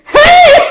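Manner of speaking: very high, loud shriek; mock shriek. Teacher acting a shopper seeing the price, shrieked. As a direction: shriek in mock horror, breaking into laughter.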